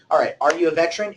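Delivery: brisk drill sergeant voice; fast, commanding military talk. Pretend. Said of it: "start talking like a military".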